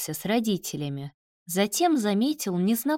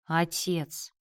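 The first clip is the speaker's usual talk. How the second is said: gentle, understated calling of father; calm him with one word; soothing; 3 dB quieter than usual. A narrator's reading. Son hurrying to calm his father, soothing. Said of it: "поспешил успокоить его Давид".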